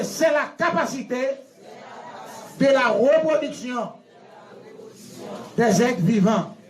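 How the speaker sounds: definition in separate chunks with long pauses; teacher drilling a definition; repeat-after-me delivery. Shown as a demonstration. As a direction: lead the room through it phrase by phrase. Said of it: "répétez après".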